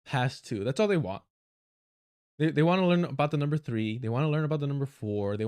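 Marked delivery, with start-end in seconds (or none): 0.0-0.6 mock dim voice. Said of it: "their political awareness and intellect is like".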